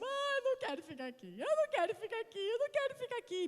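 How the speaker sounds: put-on high whiny child's voice; imitating crying child. Mother imitating her son crying in hospital, whiny high. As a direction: mimic a crying boy. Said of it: "E o William começa a chorar".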